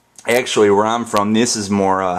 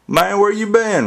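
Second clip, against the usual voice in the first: a high hick twang; redneck voice; 12 semitones higher than usual. Pretend. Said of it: "redneck word".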